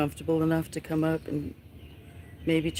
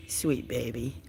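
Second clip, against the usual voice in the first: cooing; 4 semitones lower, 3 dB quieter, slower than usual. Real, not acted. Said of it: "cooing to kitten".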